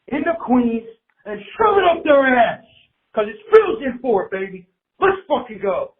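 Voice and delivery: high, loud hype shout; rally the fans, voice climbing; fired-up rally cry. Real, not acted. Fired-up caller rallying the team.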